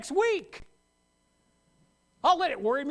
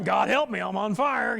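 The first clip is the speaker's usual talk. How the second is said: mock panicked prayer; 5 dB louder than usual. Mock prayer while burning.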